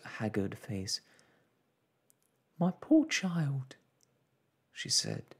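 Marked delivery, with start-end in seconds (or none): 2.6-5.3 anguished pity. Acted. Mother pities innocent daughter, anguished. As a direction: pour out a mother's dismay.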